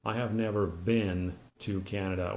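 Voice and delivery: "been" said as "bin" with a short I; the American way; American pronunciation. Shown as a demonstration. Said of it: "United States would say".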